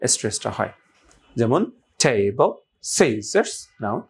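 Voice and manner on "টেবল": "টেবল" slowly, with a long stressed "টে"; first-syllable stress. Shown as a demonstration. Teacher recaps the rule with an example, first-syllable stress. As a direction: draw out "টে" in "টেবল", then add "বল". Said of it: "তাহলে প্রথম অংশে".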